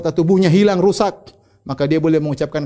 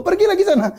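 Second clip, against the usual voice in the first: raised, high-pitched retold order; retold command. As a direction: send him off again in a higher voice. God orders the man back.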